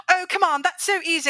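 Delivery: high, scoffing "come on, that's so easy"; dismissive quote. Retold or imitated. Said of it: "And you're like".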